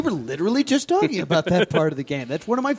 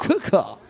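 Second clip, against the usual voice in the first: crow caw. Retold or imitated. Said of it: "I'm gonna start talking like you".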